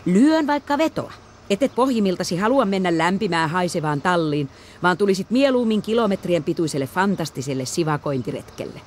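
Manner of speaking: high, loud playful teasing; teasing boy calling from the car. Acted. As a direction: tease her with a grin. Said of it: "hymyili kiusoitellen".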